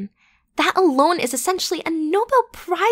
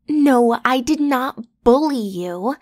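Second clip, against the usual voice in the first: defensive protest; 4 dB louder, slower than usual. Acted. Defending herself against accusation.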